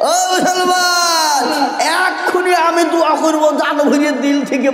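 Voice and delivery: high, long-drawn cry to the faithful; rousing call. Real, not acted. Preacher promising heartfelt prayer to donors, rousing call. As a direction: call out to the whole crowd, stretching the vowels.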